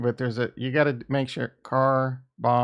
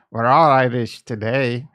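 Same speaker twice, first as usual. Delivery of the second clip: louder mock Irish accent, slightly improved; attempted Irish accent; 2 semitones lower, 5 dB louder than usual. Streamer retrying for Saint Patty's Day, passable mock Irish accent. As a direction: have another go at an amateur Irish accent. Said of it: "I guess that was kinda better".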